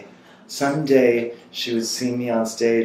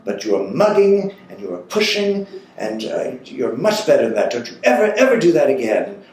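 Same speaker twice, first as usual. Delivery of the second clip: stern scolding; 4 semitones higher than usual. Retold or imitated. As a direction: scold him firmly, pitch jumping on ever. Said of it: "she just lit into me".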